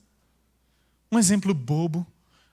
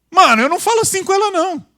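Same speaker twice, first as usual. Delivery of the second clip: mock heated complaint; 10 semitones higher, 6 dB louder, faster than usual. Heated complaint to operator, fast.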